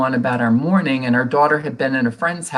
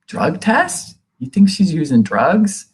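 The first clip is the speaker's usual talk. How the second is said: shocked disbelief; 6 semitones higher, slower than usual. Retold or imitated. Mother shocked at drug test.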